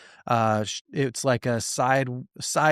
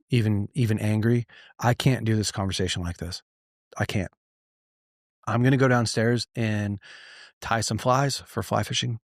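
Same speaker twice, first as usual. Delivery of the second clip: lower-pitched, measured reassurance; calm, gentle firmness; 3 semitones lower than usual. Retold or imitated. Husband to frustrated wife, pausing a heated conversation, calm and gentle. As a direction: retell it as a calm partner setting a boundary.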